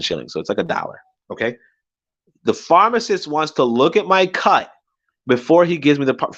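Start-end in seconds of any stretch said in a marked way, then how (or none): 2.4-6.3 incredulous, higher-pitched indignant repeat; pissed off. Retold or imitated. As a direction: throw the demand back in disbelief. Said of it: "I'm just fucking pissed at this point".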